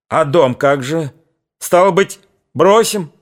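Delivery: high, rising alarm; alarmed question. A narrator's reading. Old father alarmed at abandoning the house, rising alarm. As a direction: cry out about the house.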